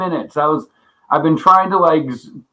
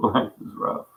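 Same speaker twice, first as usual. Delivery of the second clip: laughing; 5 semitones lower, 9 dB quieter than usual. Real, not acted. Quiet laugh aside.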